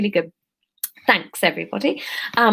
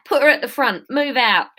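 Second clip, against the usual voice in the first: higher-pitched London accent attempt; 5 semitones higher than usual. Leader ordering captives to move, higher London accent. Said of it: "this isn't Londony at all".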